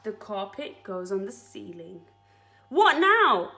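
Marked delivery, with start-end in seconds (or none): 2.7-3.5 higher, louder chorus of creatures; eager group question; animals asking together. Acted. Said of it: "they all said".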